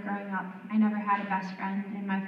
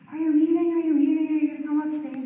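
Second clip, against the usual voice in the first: imitating the little girl; 7 semitones higher, 7 dB louder, faster than usual. Child clinging, pleading.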